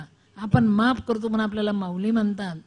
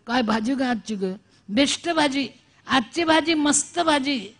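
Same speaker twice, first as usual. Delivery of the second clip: overdone husband's praise; 4 semitones higher than usual. Retold or imitated. Husband tries the trick on his wife at dinner, hammed-up. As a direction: lay the praise on thick. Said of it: "त्याने सुरू केलं ना जेवता जेवता".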